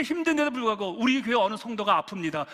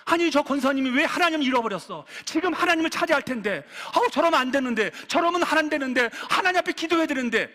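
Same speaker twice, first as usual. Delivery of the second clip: higher, mildly pleading lament over another; 애통해하는 탄식; 3 semitones higher than usual. Acted. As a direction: lament urgently as a worried church member, pitch lifted. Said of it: "막 애통해하는". (안타까워하며 높아진 목소리로 탄식)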